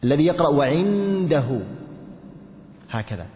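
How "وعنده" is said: وعنده drawn out very slowly, نون clearly sounded and nasal; slow faulty reading of وعنده with a pronounced نون; wrong izhar with ghunna. Shown as a demonstration. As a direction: stretch وعنده and let the نون ring out. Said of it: "يظهر النون الساكنة".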